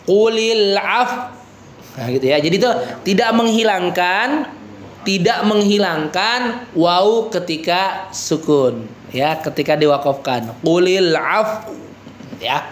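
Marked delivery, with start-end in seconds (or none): 0.0-1.3 Qulil af- with lips pushed forward, slow; lips pursed. Shown as a demonstration. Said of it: "kita monyong". 10.6-11.7 Qulil af- with lips pushed forward, slow; lips pursed. Shown as a demonstration. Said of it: "mau ngelihat monyongnya".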